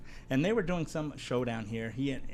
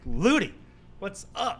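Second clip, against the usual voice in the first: loud, high hail to a star friend; excited greeting; 7 semitones higher, 6 dB louder, slower than usual. Retold or imitated. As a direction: call out to him like you're thrilled. Greeting Ludacris in a retold scene.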